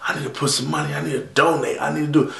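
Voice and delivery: quietly talking himself into donating; quiet inner thought. Retold or imitated. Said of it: "I'm sitting there really like".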